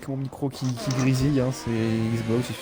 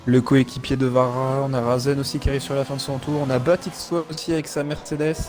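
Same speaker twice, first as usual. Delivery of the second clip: motorsport commentator; 3 semitones higher than usual. Acted. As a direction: lively race play-by-play. Live race play-by-play.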